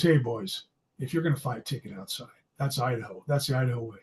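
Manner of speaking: hint of a stern chaperone shrugging it off. Chaperone voiced in story.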